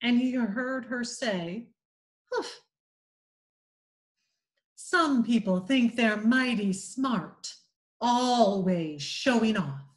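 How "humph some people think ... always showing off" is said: haughty. Acted. Becky snubbing showing-off Tom, haughty and disdainful. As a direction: sniff at him with nose in the air. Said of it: "with her nose in the air".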